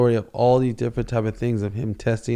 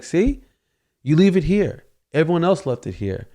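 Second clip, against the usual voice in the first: put-on coaxing child; 7 semitones higher than usual. Father showing his son where the bed stays. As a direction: gently explain it like to a toddler. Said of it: "So I was like".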